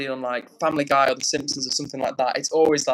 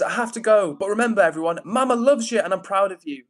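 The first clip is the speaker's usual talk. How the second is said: a higher-pitched hint of a mama; lightly voiced mama; 5 semitones higher than usual. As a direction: read it lightly as mama's farewell to everyone. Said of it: "Mama says".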